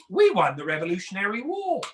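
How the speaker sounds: mock know-it-all British accent. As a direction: claim it with British authority. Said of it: "their accent makes them sound like they know everything".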